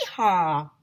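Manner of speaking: whooping yeehaw, loud; loud cowboy whoop; shouting. A narrator's reading. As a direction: holler it like a gold-crazed teacher. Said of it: "They were all shouting".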